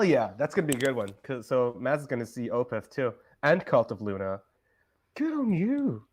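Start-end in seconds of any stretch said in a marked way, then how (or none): 5.1-6.1 bad British accent, pitched higher; a clumsy, mocking British accent; terrible British accent. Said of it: "my terrible British accent".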